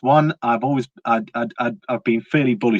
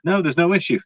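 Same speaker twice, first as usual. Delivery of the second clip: high, breezy mock officials' voice brushing off the risk; hammed-up dismissive reassurance; 6 semitones higher than usual. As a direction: lightly parody the Fed saying all is fine. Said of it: "they said the same thing about the".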